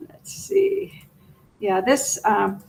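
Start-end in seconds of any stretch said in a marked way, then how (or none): 0.1-1.0 whispering. Real, not acted. Struggling with video playback.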